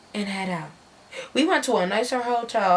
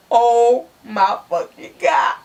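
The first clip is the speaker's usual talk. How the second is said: shocked shout. Retold or imitated. Gun pulled out.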